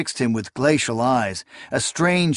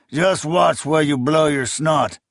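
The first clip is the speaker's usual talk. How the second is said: mildly laughing, higher; mock amusement in the voice; 4 semitones higher than usual. A narrator's reading.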